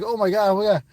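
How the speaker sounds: high, loud, overjoyed repeat; excited gush. Retold or imitated. Streamer shows viewers his excitement, high and loud. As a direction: squeal it out in disbelief. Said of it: "I get a little excited".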